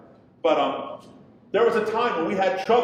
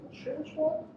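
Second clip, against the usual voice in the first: voicing daughter; 10 semitones higher, 7 dB quieter than usual. Daughter voiced in story.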